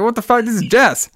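high-pitched, baffled retort; acting out an affronted answer on the phone; indignant reply. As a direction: pitch it up, put out. Jess baffled by caller's demand.

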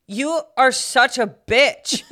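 laughing insult. Retold or imitated. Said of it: "I would have been like".

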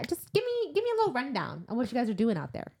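high, quick, chatty monster; comic character voice, rattled off quickly; put-on monster voice. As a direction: voice the monster asking casually for gossip. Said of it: "That's great voice".

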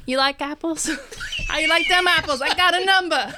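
put-on movie-quote Boston accent; cocky mock Boston accent. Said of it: "You can do a Boston accent".

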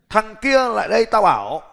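a hint of casual street-style calling, rising at the end; lightly voiced street talk to an employee. Shown as a demonstration. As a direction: call him over like a mate on the street. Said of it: "mình phải nói như này này".

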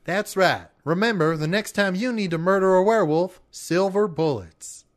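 hammed-up ad tagline; home shopping host. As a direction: close the ad like a salesman. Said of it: "sent us a recording".

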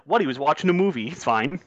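quick, dismissive imitation; mock nonchalance. Host mocking team's response to a concussion, mock nonchalant. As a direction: toss it off as if it were nothing. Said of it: "the nonchalantness of being like".

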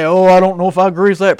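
doubting listener. Retold or imitated. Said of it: "some of you out there are probably gonna say".

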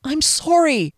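high, desperate apology; anxious, pitched well up; pleading. A narrator's reading. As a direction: plead as a frightened captive. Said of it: "she pleaded".

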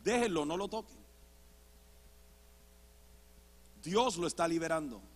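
low, soft, calm command; hushed preacher quote. Retold or imitated. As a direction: gently hold others back, very softly. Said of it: "el hombre viene y dice". (predicador en voz baja y serena)

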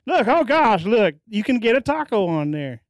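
a light impression of his own dad gushing over Casey's; imitating his dad. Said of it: "you just became your dad there".

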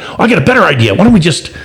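lightly acted boyish enthusiasm; excited kid. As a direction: pitch up like a keen child. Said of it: "the kids got really excited about it".

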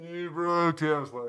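slow, drawn-out passing yell; Doppler effect. Retold or imitated. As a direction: stretch it out like a voice whooshing past. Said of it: "Doppler effect style".

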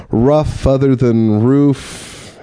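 "rough" in place of "roof", drawn out slowly; grandmother's pronunciation. Retold or imitated. Quoting grandmother's pronunciation, slow contrast of "rough" and "roof". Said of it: "My grandmother always says".

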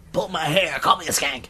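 high pretend woman's voice; mock breathy woman. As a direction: play a needy woman, high. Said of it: "It's like".

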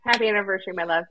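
soft, tender and low; romantic. Real, not acted. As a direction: murmur it lovingly. Wife answers husband tenderly.

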